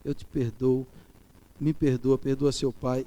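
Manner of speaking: soft, quiet words of pardon; whispered-close fatherly pardon; tender forgiveness. Retold or imitated. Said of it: "falar assim".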